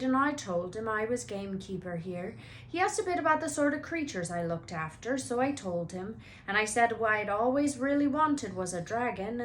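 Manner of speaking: a hint of big friendly gamekeeper, cheerful; lightly voiced jolly giant offering a drink; Hagrid's voice. Hagrid's voice beside narration.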